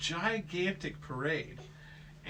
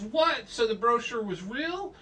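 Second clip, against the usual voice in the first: surprised question; 8 semitones higher, 5 dB louder than usual. Acted. She is surprised.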